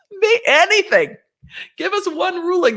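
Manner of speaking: high pleading whine. Real, not acted. Lawyer begging the court for a ruling, high pleading whine. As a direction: beg for any ruling at all.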